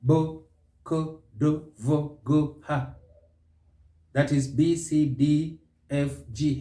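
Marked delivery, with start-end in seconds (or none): 0.0-3.0 each consonant as a separate short syllable; consonant sounds. Shown as a demonstration. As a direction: sound out "Bo, ko, do, vo, go, ha" one by one. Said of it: "producing some of these consonant sounds".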